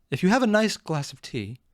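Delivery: put-on botched British accent; bad stab at a British accent; horrible British accent. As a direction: try British and miss. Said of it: "with my usual horrible accent".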